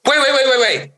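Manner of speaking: put-on high frantic child shouting wait; child's high panicked cries; panicked kid yelling. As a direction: shriek it like a scared four-year-old. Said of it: "this is the end of the forty minutes".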